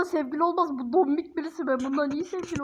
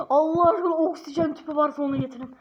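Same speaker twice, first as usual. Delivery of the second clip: mock wail; faster than usual. Begging comically for oxygen.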